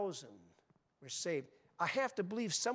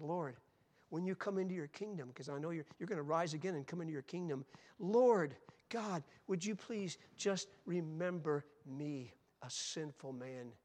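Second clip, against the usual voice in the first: dying thief asking Jesus to remember him; humble plea. Acted. Thief's humble prayer voiced.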